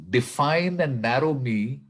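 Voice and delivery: unhurried recital with long pauses between lines; measured, deliberate poetry reading; slow poem reading. Real, not acted. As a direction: read the poem slowly, letting each phrase stand alone. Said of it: "I'll read it very slowly".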